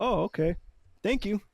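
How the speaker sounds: soft, offhand thanks, lightly imitating a driver; understated surprise. Imagined driver's reaction to a surprise win, softly nonchalant.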